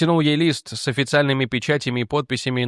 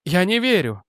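shouting; 6 semitones higher than usual. Acted. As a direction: shout your denial. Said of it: "закричала она". (закричать)

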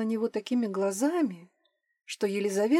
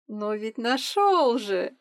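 giggling; 3 dB louder, much slower than usual. A narrator's reading. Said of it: "хихикнула Ирина".

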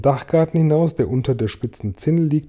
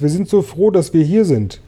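put-on high, raised boyish call; calling out happily; 6 semitones higher, 4 dB louder than usual. A narrator's reading. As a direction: call down with relief, pitched high. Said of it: "rief James". (froh heruntergerufen)

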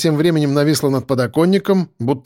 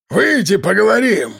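calling out; 6 semitones higher than usual. Acted. Gunman calling narrator out.

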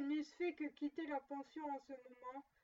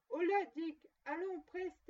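jolly call; 4 semitones higher, 6 dB louder than usual. A narrator's reading. Fezziwig calling his apprentices.

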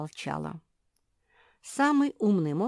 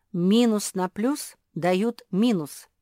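slow correction; 5 semitones higher, 9 dB louder, slower than usual. Acted. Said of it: "возразил Черчилль".

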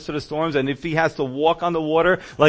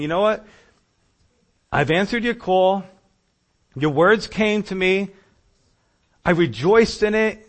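higher, hurt appeal to the Lord; questioning God; 4 semitones higher, 4 dB louder than usual. Retold or imitated. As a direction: press God for answers as Jeremiah. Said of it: "this is what Jeremiah is saying now to the Lord".

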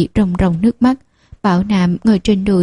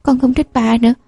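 put-on child's shout; 4 semitones higher than usual. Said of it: "Bảo Nam lại gào lên".

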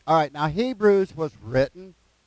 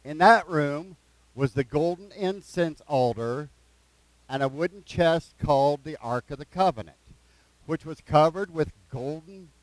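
slow, measured scripture reading; unhurried reading aloud with pauses. Real, not acted. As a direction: read it out slowly, phrase by phrase. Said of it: "I'm gonna read it slow".

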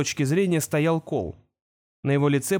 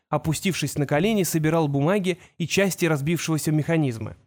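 usual speaking voice

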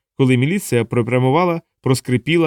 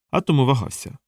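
ordinary delivery

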